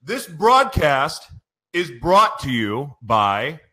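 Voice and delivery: emotional sponsor read breaking off; choked up. Real, not acted. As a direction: fight back tears as you read it. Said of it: "I'm gonna cry".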